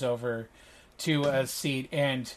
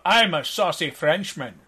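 mock Scottish-tinged French accent, amused; Sean Connery's French accent; 2 semitones higher, 4 dB louder than usual. Game master teases a player's accent, mock Connery-French accent. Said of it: "Sean Connery's version of".

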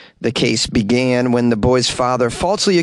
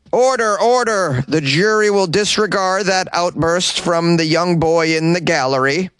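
stern judge voice; pompous judge; 5 semitones higher than usual. Acted. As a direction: bang the gavel. Judge voice in court.

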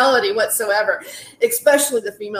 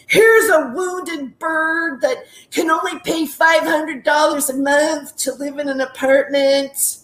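mocking sleazy guy; slower than usual. Mocks sleazy landlord's thinking.

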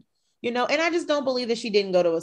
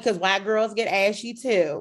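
mock Southern sass, slightly raised; put-on Southern accent. Host mimicking Erica's remark, put-on Southern accent. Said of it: "She puts it on, like".

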